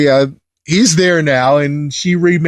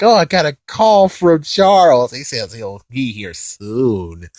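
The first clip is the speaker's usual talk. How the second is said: put-on weird old lady; 2 semitones lower than usual. Reviewer quoting the movie's weird old lady, lightly imitated. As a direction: voice a slightly dotty old lady, slowing at the end. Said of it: "the fact that she's like".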